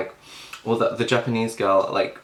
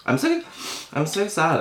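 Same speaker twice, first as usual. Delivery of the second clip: mock whiny sad; 8 semitones higher than usual. Whiny lament about a YouTuber.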